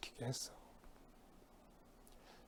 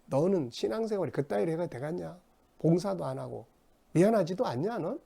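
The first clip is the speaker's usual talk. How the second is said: mock scolding; 5 semitones higher than usual. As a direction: scold them as if they were slacking off. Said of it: "막 상대방의 약점 지적하는 거예요".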